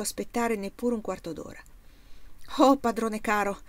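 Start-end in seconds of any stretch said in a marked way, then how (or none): 2.6-3.6 a lightly voiced eager greeting; glad exclamation. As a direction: call out to the master with mild relief. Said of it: "esclamò il giovane". (esclamazione lieta, appena accennata)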